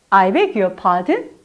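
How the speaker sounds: slow whispered I beg your pardon, rising at the end; whispered rising question. Shown as a demonstration. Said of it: "반드시 올려야 돼요, 억양은".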